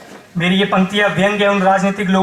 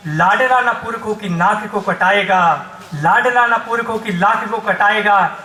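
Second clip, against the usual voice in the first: rousing vow in driving, repeated rhythm; poem recitation. Acted. Soldier son answers his mother with a vow, declaimed.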